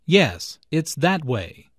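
that punched and held, slow falling line; slow demo, weight on that; stress on that. Shown as a demonstration. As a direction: lean on that as if pointing. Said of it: "Notice the stress on that".

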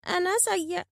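high, plaintive bird voice; small, sorrowful admission; sad. A narrator's reading. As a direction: blame yourself mournfully. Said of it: "قال بحزن".

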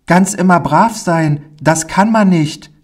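put-on high child voice, rushing then dropping into fear; a small boy dreaming of the circus, then remembering his dread; eager little boy. Pauli tells the stranger about the circus in a high, eager child voice.

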